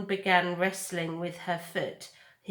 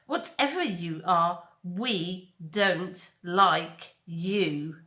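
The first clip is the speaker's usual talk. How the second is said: put-on slow, menacing young bear; bear threatening; slower than usual. Bear Thorn telling the robot, slow menace. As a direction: draw out each word as a threat. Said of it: "said Thorn".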